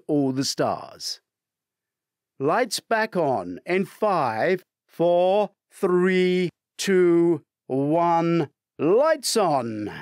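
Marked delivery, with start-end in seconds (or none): 2.4-9.9 loud countdown call; shouting countdown. Acted. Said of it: "Neil shouts".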